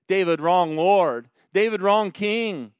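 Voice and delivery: building rebuke. Real, not acted. Preacher's building triple rebuke.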